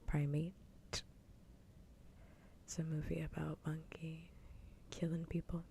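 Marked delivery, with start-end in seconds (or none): 0.1-0.5 Primate ending cleanly on T, no S; Primate without final S. Shown as a demonstration. Streamer repeating the movie title, Primate with no final S. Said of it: "No S at the end".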